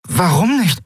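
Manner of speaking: disbelieving outburst, rising with each word; surprised. Acted. Brother shocked that Lien will not stay, surprised.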